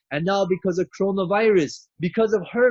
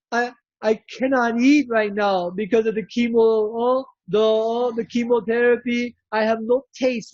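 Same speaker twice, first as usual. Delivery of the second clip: higher, rushed worried pleading; lightly voiced despairing patient; 4 semitones higher than usual. Patient calling the doctor, mild mock despair. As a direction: plead in a hurry, half panicked. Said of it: "again she'll call".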